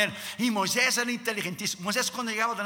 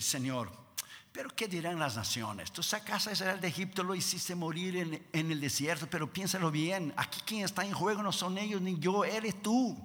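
soft, careful appeal to God; acted humble reasoning, voice held down; Moses pleading; 2 semitones lower, 7 dB quieter than usual. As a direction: reason gently with someone far mightier.

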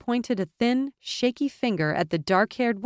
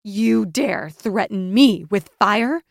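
gasped out; 6 dB louder, slower than usual. A narrator's reading. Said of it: "Krissa gasped".

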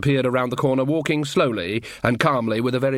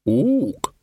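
higher-pitched ape hoot; orangutan voice; 5 semitones higher than usual. A narrator's reading. Orangutan librarian answering a greeting, ape hoot.

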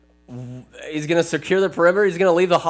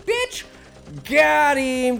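high screeching wraith; 12 semitones higher, much slower than usual. Retold or imitated. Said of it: "He goes".

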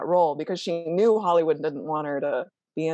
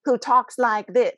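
mocking. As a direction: sneer like a puzzled audience. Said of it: "They were like".

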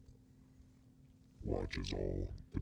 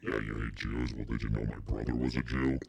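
louder, scornful devil talking down to Hitler; the devil ranting; 3 semitones higher, 4 dB louder than usual. Pretend. Devil on vacation berates Hitler, a loud scornful rant. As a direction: boss him around like a bored devil. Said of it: "I'd be like".

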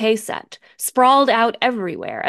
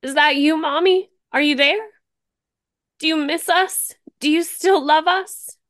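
high, loud, pleading call; a scared girl calling her mother; pleading child; 8 semitones higher, 5 dB louder than usual. Acted.

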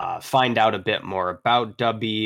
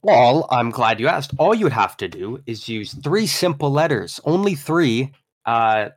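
ad read. Acted. Ad read for sponsor.

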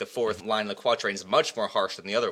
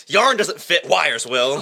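imitating Shakespeare's friend; 5 semitones higher, 8 dB louder, slower than usual. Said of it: "So Shakespeare was like".

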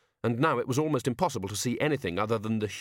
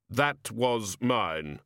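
grim reaper voice; much slower than usual. Acted. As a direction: speak as Death, slow and final. Death speaks in story.

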